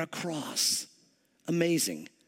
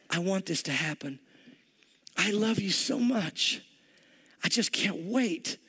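tender longing. Acted. Voices Jesus longing, loving his disciples.

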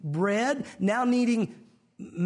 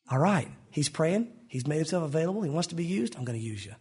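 lightly voiced God, low musing tone; God deciding; 5 semitones lower than usual. Voices God spotting a willing person.

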